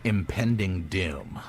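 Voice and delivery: slow, ominous dungeon master; ominous narration. Acted. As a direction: let the doom sink in slowly.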